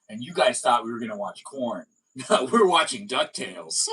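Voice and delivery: teasing gotcha through laughter; chuckling at the prank; laughing reveal. Pretend. Host reveals the prank to friends, laughing.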